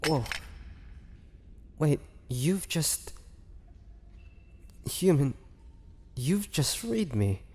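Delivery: barely believing the cage is open; stunned disbelief. Acted. Caged vampire to the human who freed him, stunned and halting.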